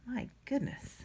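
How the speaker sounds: soft groan while straining at a lid; opening a stuck jar. Real, not acted. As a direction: exhale it under the effort of twisting. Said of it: "I'm still trying to get the lid off".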